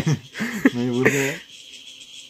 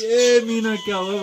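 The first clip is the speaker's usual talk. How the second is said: grandma calling out; 5 semitones higher, slower than usual. Retold or imitated. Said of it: "दादी चिल्ला रही थी".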